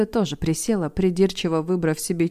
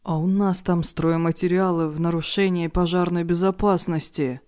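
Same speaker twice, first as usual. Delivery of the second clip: dismayed gasp. Acted. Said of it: "охнул старший администратор".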